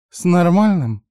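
high, loud disbelieving «С нормальным?»; incredulous echo. A narrator's reading. Woman repeating his word, high and loud in disbelief. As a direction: scoff back «С нормальным?» in disbelief. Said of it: "переспросила".

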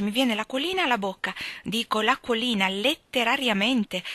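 lightly voiced excited schoolgirl; delighted Amy. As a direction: gush with joy over the money. Narrator voicing Amy.

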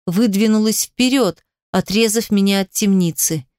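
ordinary delivery

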